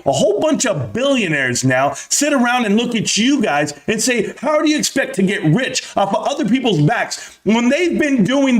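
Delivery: ramp up into a furious rant; escalating comedy rant. Real, not acted. Rant escalating against Wall Street.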